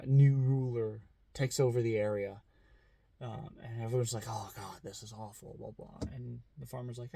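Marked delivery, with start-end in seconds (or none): 4.3-6.0 much softer, lower groaning lament; soft mock-gloomy grumble; mock villagers despairing. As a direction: moan it like dismayed neighbours. Villagers despair at the new ruler.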